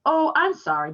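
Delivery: a man remembering his promised deal; sudden apology. Acted. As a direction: catch yourself and apologize. Man apologizing, slapping forehead.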